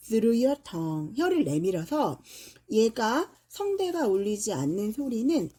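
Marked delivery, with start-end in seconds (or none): 0.1-1.2 drawn out slowly, word by word; teacher slowing down to show the tongue; very slow demo. Shown as a demonstration. Teacher demonstrating to students, very slowly. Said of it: "텅을 내밀면서 발음을 하셔야 돼요".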